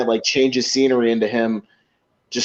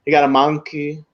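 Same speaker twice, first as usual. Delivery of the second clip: put-on Serge's accent; 3 semitones higher than usual. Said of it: "the way that he does the accent".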